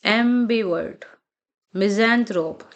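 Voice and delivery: एम्बिवर्ट and मिज़ैंथ्रोप read out as model words; pronunciation demo. Shown as a demonstration. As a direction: say एम्बिवर्ट slowly, then मिज़ैंथ्रोप ending on the p. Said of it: "आपको हर words को अलाउड बोलना है". (एम्बिवर्ट, मिज़ैंथ्रोप का अलग-अलग साफ़ उच्चारण)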